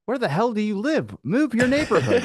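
laughing in disbelief. Real, not acted. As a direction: laugh the words out.

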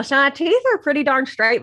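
slight lisp from aligners; aligners in mouth. Real, not acted. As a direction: talk round plastic aligners. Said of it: "I sound weird".

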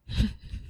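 spluttering laugh into the mic; spit take. Real, not acted. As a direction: burst out laughing mid-sip. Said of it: "I just spit all over my microphone".

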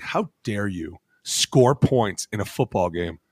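slow, drawn-out mock indignation; mock outrage. Player mimicking fans outraged by late points, slow mock outrage. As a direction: play the offended fan, spacing it out.

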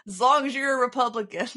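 said with a laugh. Real, not acted. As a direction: chuckle through it. Sarcastic joke, laughing.

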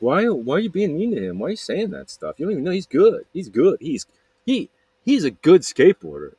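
high, insistent voice of a friend; indignant defence. Retold or imitated. Friend tells stepsister he's good, indignant.

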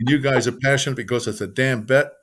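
mildly indignant retold complaint; upset wives. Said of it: "The women are really upset".

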